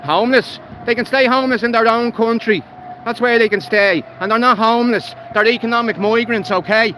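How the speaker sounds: fed up and letting it all out; real rant, voice pushed up; angry rant. Real, not acted. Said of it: "Sorry for ranting".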